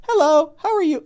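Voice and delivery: imitating a dull, polite greeting, pitched high; bland guy. Coach mimicking his boring client's hello, bland. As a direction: put on a sing-song, vacant politeness. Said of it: "a bland personality".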